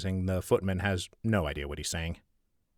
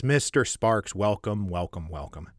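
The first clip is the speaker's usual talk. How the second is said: warm welcome. Acted. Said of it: "broad grin of welcoming generosity".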